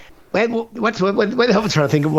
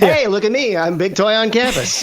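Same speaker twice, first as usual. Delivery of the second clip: pull-string toy; 5 semitones higher than usual. Acted. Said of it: "pull my string now and be like".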